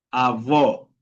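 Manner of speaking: "avó" with a closed, rounded final o; inward closed vowel. Shown as a demonstration. Teacher giving the word for grandfather, closed final vowel on "avó". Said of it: "un poco más para adentro".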